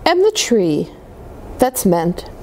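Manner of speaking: put-on gentle read-aloud voice for children; storybook reading. A narrator's reading. Reading a snowman picture book to kids, storytelling voice. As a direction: read it like bedtime story time.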